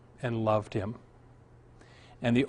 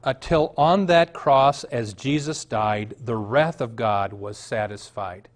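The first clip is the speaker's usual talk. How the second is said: slow recital; 2 semitones lower, slower than usual. Shown as a demonstration. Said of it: "And the words to that go".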